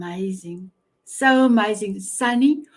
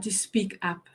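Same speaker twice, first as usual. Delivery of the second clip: hushed whisper; 3 semitones lower, 9 dB quieter than usual. Real, not acted. Host telling viewers African women may not speak, in a whisper. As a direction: drop to a breathy whisper for effect. Host stresses cultural silencing.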